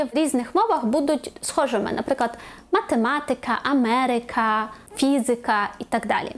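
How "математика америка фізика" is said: матеМАтика, аМЕрика, ФІзика; third-from-last stress. Shown as a demonstration. Teacher giving foreign-word examples, stress third from end. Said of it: "Наголос на третьому складі з кінця".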